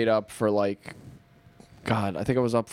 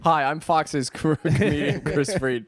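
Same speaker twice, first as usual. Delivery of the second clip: slightly raised, slow self-introduction, laughing; imitated spammer pitch; 3 semitones higher, slower than usual. Comic imitating a spammer messaging strangers, laughing pitch. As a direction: pitch yourself through a laugh. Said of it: "he's spamming people, like".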